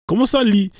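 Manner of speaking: high-pitched mock indignation; retold indignant demand. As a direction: act out an incredulous, pushy demand. Angel retold bullying illiterate man.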